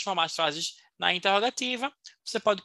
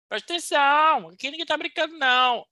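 mock stern; 8 semitones higher, 3 dB louder than usual. Teacher mock-stern warning.

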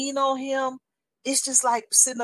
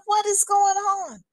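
high, drawn-out bewildered question; bewildered cry; 10 semitones higher, slower than usual. Retold or imitated. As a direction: cry out, stretching each word in bewilderment. Acts out her bewildered cry to God.

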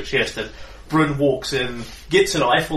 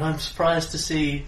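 surprised tone; 5 semitones higher than usual. Acted. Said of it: "in, in a normal tone of voice".

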